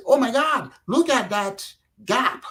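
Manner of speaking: amazed exclamation. Retold or imitated. Americans discovering cheap Indian engineers, amazed. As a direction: imitate Americans marvelling at a bargain. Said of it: "American people started to say".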